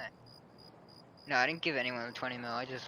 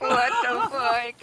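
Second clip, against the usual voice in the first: slow, louder, high shocked shout; loud disbelief; 11 semitones higher, 11 dB louder, slower than usual. Real, not acted. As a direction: drag it out in outrage. Joins the shocked outburst.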